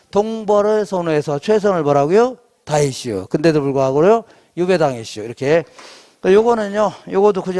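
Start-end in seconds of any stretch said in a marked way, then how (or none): 2.6-3.3 low Chungcheong dialect ending; Baek Jong-won. Shown as a demonstration. Lecturer reviewing the memory phrase, Chungcheong accent. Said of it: "이렇게 백종원 버전이죠". 4.6-5.2 light Chungcheong dialect ending; Baek Jong-won. Shown as a demonstration. Lecturer reviewing the memory phrase, Chungcheong accent. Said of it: "이렇게 백종원 버전이죠".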